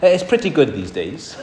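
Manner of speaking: casual offhand quoted remark; quoting his comment. Retold or imitated. Retelling a man's comment on his flight, casually. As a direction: relay his easygoing reply. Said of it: "he said something like this was his comment".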